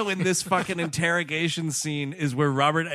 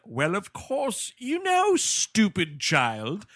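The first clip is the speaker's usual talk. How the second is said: mock condescending dean; 5 semitones higher, much slower than usual. Mocking the dean's dismissal.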